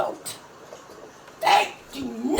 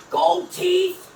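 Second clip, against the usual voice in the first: loud; 5 semitones higher, 7 dB louder than usual. Real, not acted. Throwing the lyric back at her.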